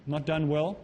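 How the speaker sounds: ordinary talk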